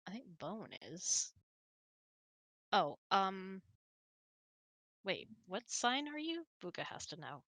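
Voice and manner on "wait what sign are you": normal talking voice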